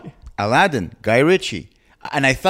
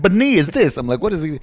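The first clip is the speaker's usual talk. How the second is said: mimicking; 10 semitones higher than usual. Mimicking heard sounds.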